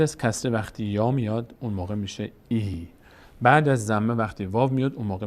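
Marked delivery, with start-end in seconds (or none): 2.5-2.9 "ای" as a long ee; long vowel. Shown as a demonstration. Teacher naming the long vowels, held "ای". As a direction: hold "ای" as a steady ee. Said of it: "صدای کشیدهٔ".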